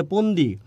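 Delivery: পন্দি with hard unaspirated প; regional p for ph. Retold or imitated. Teacher quoting Laksam people, পন্দি with plain p for ph. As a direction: start পন্দি on p, no puff of air. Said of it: "ওই অঞ্চলের মানুষ যেমন ফোন দিলে বলে".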